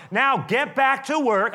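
high, loud, slow shouted command; angry king ordering slaves back to work, loud. Acted. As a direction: bark it out, furious. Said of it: "But Pharaoh shouted".

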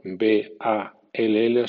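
"ball" con o abierta, bol; English "ball". Shown as a demonstration. (di "ball" como bol)

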